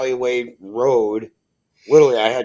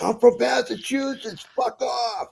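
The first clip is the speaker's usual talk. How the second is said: higher, mock-defiant shout without real volume; to honking drivers, retold defiant high burst; retold defiance; 11 semitones higher than usual. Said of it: "and I'm like".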